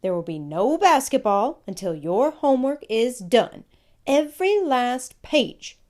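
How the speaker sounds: put-on high, loud mother stopping the boys; firm mom calling after her sons; calling out firmly. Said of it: "Missus Jordan called".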